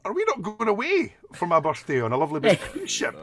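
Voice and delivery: imitating his wife's incredulous protest; wife's indignant question. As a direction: play the wife stretching out her disbelief. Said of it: "And she goes".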